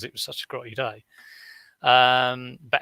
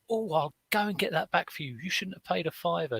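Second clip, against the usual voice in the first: fussing church woman; 6 semitones higher than usual. Retold or imitated. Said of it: "And she went".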